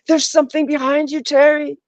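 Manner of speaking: high, mock panicked warning; imitating friends freaking out, pitched well up. Australian friends warning Terry about something behind her, in a high mock panic. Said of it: "And they're like".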